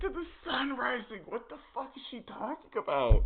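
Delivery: high incredulous laugh-talk; high, laughing disbelief. Real, not acted. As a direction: crack up at the clip.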